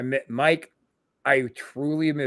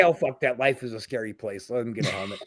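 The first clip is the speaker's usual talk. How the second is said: gruff dismissal; 4 semitones lower, 5 dB quieter than usual. Retold or imitated. Porter gruffly dismissing kids' fears.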